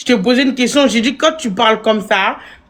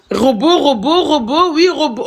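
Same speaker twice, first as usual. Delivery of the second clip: laughing. Real, not acted. Mocking chant of robot, laughing.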